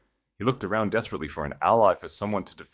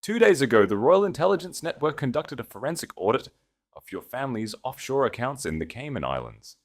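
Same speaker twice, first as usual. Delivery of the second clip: projecting to the room; 3 semitones higher than usual. Acted. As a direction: announce it to the whole hall, then let it settle. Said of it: "projecting his voice for the entire room".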